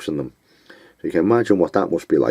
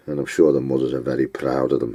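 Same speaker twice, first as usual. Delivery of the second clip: dry sarcastic remark; 2 semitones lower than usual. Acted. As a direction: say it with mock praise. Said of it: "I'm being sarcastic now".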